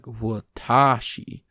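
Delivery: "watashi" said wuh-TAH-shi with the middle stressed; "watashi" slowly, weak first vowel and heavy middle; warped first syllable. Shown as a demonstration. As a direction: draw out TA in "watashi", English-style. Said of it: "first syllable is usually warped as a result".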